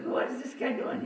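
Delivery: high, breathy whisper of disbelief; mock the baffled stare; incredulous look. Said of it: "he's looking at me like".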